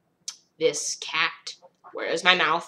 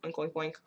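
soft mock pig oinks; oinking pig; 11 dB quieter, faster than usual. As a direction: snort it out lightly like a pig. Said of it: "got a pig nose".

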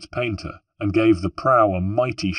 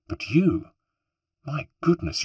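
admiring; 6 semitones higher than usual. A narrator's reading. Woman admiring rescuer's strength.

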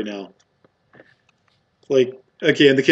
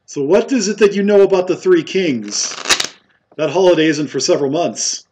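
higher-pitched, probing character voice; inquiring barkeep; 5 semitones higher, 3 dB louder than usual. Acted. Barkeep asks stranger about Three Kings, higher probing voice. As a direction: question the stranger pointedly, in character.

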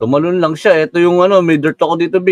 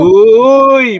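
surprised; 6 semitones higher, 5 dB louder than usual. Real, not acted. Startled by found food.

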